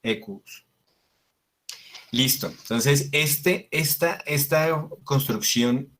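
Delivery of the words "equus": "ecus" whispered, long and stretched; drawn out. Shown as a demonstration. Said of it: "Es como alargada".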